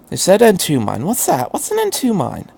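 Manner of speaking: put-on high, frantic young boy voice, rising to near tears; a scared teenage boy spilling guilt, voice climbing; panicked boy. A narrator's reading. Shinji asks, confused.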